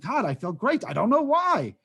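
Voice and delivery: put-on gleeful wonder; mock delight. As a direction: play someone marveling at their luck. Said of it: "who's waking up every day saying".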